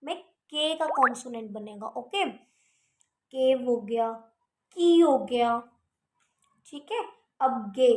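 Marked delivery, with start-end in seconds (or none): 2.3-4.1 "केव" stretched very slowly with a clear k sound; teacher sounding "केव" for the class; sounding out cave. Shown as a demonstration. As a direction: draw out "केव" slowly, hitting the k. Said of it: "के की sound आ रही है".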